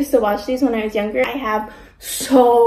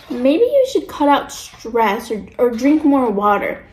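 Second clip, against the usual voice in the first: slow, stretched fake-helpful advice; mocking suggestion; slower than usual. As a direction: imitate someone offering obvious advice. Mocks people's stock health advice.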